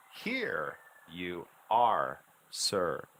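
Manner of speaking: slow "here you are, sir", each word on its own pitch; very measured, melodic "here you are, sir"; changing intonation. Shown as a demonstration. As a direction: stretch "here" with a falling tune. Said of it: "change the intonation for each new syllable".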